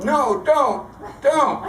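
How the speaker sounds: a mild mock yell of protest. Boy in the hole refuses to be pulled out, mock yell. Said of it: "and he's yelling".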